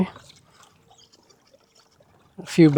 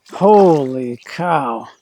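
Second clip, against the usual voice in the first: drawn-out holy cow; slow amazed; 4 dB louder, much slower than usual. Real, not acted. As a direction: stretch it out in disbelief. Sees the big smallmouth.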